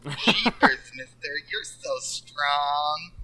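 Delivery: put-on slow, innocent kid voice; gee-whiz little kid; wholesome 1950s kid. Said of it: "I was going for innocent".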